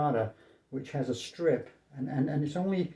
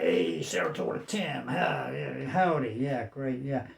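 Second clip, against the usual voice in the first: mock Western guy; slower than usual. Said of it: "a Western guy".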